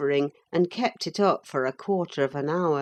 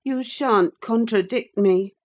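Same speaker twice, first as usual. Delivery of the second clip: angry; 6 semitones higher, 6 dB louder than usual. Acted. Cathy quarrelling.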